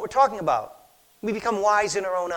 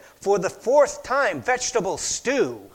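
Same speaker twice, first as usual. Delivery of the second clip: exasperated reply; 3 dB louder, slower than usual. Retold or imitated. Exasperated wife answering again.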